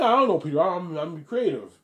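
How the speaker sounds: high, loud bashful shrug of an answer; answering Peter with mock modesty; mock modest reply. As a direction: play it coy and humble. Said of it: "I mean".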